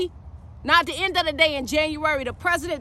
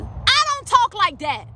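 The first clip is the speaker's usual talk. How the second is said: emphatic refusal; 4 semitones higher, slower than usual. Real, not acted. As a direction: back to full voice, higher and slow. Rejects the demonstrated soft tone.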